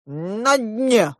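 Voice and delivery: mildly grand royal announcement; a touch of a ceremonial bass; solemn bass proclamation. A narrator's reading. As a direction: announce it solemnly, stretching the words. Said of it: "торжественным басом возвестил король".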